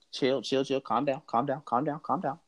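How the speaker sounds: mildly acted urging to settle; calming someone down. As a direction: talk down an overexcited kid. Calming the frantic, begging boy.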